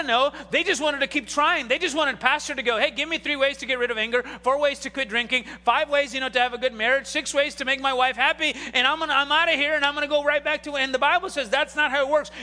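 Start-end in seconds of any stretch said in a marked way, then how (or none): 2.8-10.8 mock eager, rattled-off list; impatient churchgoer. Churchgoers telling pastor what they want, impatient. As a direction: reel off demands and rush for the exit. Voicing churchgoers wanting quick fixes.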